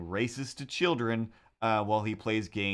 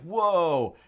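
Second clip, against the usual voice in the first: higher, louder imitated wow; mock awe; 7 semitones higher, 6 dB louder than usual. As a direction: imitate a crowd amazed by prizes. Contestants wowed by the prizes.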